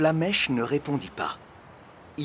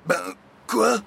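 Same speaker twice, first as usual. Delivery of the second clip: high, loud baffled question; astonished; 8 semitones higher, 5 dB louder than usual. A narrator's reading. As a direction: blurt it out in surprise. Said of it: "s'étonna le facteur". (question étonnée, haute et forte)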